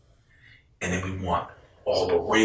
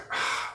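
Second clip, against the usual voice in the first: soft breathy sigh; resigned sigh; 10 dB quieter than usual. Retold or imitated. Reacting to his friend's threat, resigned sigh. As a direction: let out a quiet, deflated breath.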